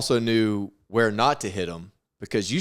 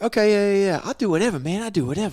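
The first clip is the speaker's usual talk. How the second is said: very high-pitched cartoonish voice; 9 semitones higher than usual. Imagining the boxer agreeing to fight rules: Mike impression. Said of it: "I see Mike like".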